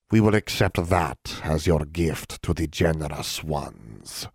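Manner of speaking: slow, measured elf voice; a cold elder laying out the price; elf leader. Acted. Tio states the terms.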